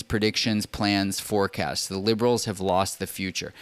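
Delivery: reading a quote aloud. Real, not acted. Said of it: "let's read it again".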